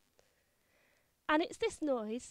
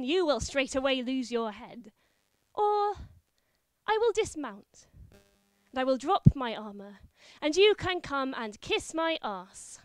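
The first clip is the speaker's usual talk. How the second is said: mocking knight; 4 dB louder than usual. Disguised wife mocking husband.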